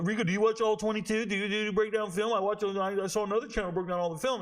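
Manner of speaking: high-pitched mocking impression of fans; pestering viewers. Viewers pestering the host about film breakdowns, high mocking voice. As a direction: rattle off questions in an eager high mock voice. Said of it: "I get it all the time. People".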